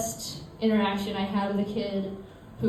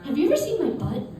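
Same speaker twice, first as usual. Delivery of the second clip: put-on kid's blurted question; 5 semitones higher, faster than usual. Seven-year-old's question to former babysitter.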